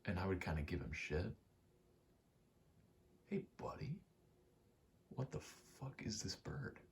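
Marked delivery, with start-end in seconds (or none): 3.3-6.8 high-pitched voice for a pet; soft, high questioning to an animal; talking to pet. Real, not acted. Breaks off to address pet.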